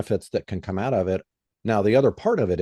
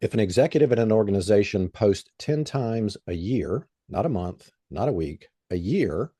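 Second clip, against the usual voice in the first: deliberate, carefully spaced phrases; slow and clear. Real, not acted. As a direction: say it slowly so everyone can understand. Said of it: "I'm gonna say this slowly".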